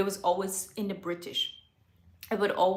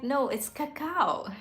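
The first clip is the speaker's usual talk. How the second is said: slow, higher-pitched mock correction; playfully insist, drawing out the words; teasing insistence; 6 semitones higher, slower than usual. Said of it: "I was also teasing them".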